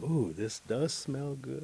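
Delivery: slow, lifted, savoring ooh; acted pleasant surprise, stretched out; delighted. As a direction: breathe in a lovely scent and relish it. Young man enjoys the scent.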